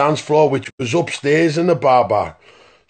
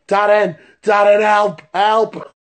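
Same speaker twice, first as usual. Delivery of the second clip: mock panicked call, a bit higher and louder; retold shout for help; 4 semitones higher, 3 dB louder, slower than usual. Mate pinned by the goth, mock yelling for Darren. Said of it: "he's shouting".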